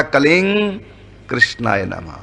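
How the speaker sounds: कलिंग कृष्णाय नमः said fast, m becoming ng; quick blended कलिंग कृष्णाय नमः; quick and joined. Shown as a demonstration. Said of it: "जल्दी जल्दी बोलेंगे दोनों को जोड़कर".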